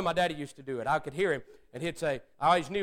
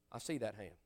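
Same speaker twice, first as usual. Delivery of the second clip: softer, lower, hushed altar call; hushed preacher; 9 semitones lower, 14 dB quieter than usual. Retold or imitated. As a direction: murmur it gently like a pastor spotting a raised hand. Preacher softly spotting a raised hand.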